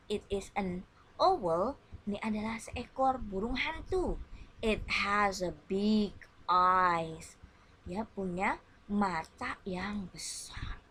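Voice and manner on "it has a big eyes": model reading. Shown as a demonstration. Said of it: "And you repeat my reading".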